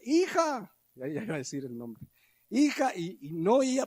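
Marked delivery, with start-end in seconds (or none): 0.0-0.7 much higher call of Hija, stretched; calling louder. Retold or imitated. Father calling his daughter again, higher and more insistent. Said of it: "Y más fuerte". 2.5-2.9 mock shout. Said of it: "bueno, grité".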